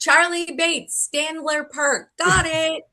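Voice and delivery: high, slow echo of the golf tip; lightly mocked old man. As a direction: mimic the confused old man. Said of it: "echoing the quote".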